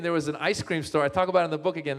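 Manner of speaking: ordinary talk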